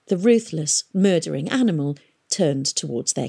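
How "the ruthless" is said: ordinary delivery, nothing marked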